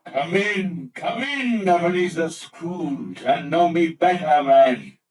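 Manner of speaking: hearty, booming spirit welcoming a guest; jolly ghost. Acted. The ghost welcomes Scrooge in, hearty and booming. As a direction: boom out a big welcome.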